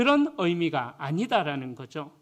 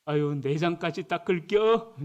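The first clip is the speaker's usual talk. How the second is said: Chungcheong dialect. Retold or imitated. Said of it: "식당 주인이 이렇게 한대".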